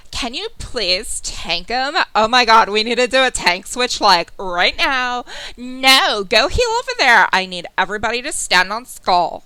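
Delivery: loud barking raid calls; angry raid leader yell. Retold or imitated. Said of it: "using that voice".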